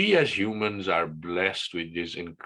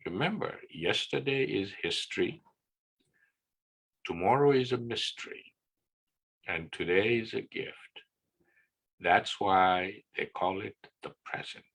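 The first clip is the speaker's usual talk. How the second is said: put-on softer, calm old sage; calm wise master; 4 dB quieter than usual. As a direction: soothe him like a patient old teacher. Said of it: "Master Oogway very calmly says".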